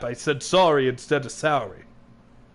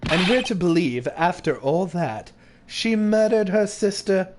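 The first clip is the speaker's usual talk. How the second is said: incredulous; 3 semitones higher than usual. Acted. Courtroom argument doubting the accusation.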